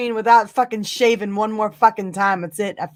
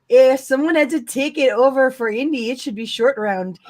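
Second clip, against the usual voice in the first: bad Canadian accent, reading aloud. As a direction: read it in a hammy Canadian accent. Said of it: "the worst Canadian accent ever".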